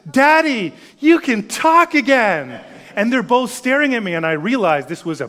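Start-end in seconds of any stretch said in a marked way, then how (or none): 0.1-2.6 put-on high, loud, thrilled little girl; light up like a four-year-old; delighted child. Four-year-old daughter greets Dad, thrilled and loud. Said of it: "she lights up".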